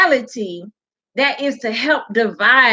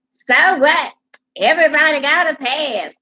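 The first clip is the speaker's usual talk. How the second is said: sassy retort, pitched up; ghetto-woman imitation; 5 semitones higher than usual. Vlogger reading out a woman's comment, sassy imitation. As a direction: mimic a brash, dismissive commenter. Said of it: "She was moving and talking like this".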